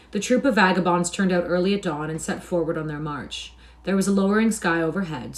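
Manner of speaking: clear, measured storybook reading; story narration. A narrator's reading. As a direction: narrate with crisp, projected diction. Reads the story aloud.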